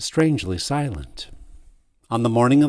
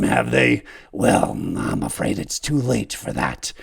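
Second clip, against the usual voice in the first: bitter dying servant. Acted.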